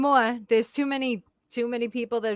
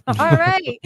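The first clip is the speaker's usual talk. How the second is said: cheery mock reply; 7 semitones higher, 7 dB louder than usual. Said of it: "reply to insult".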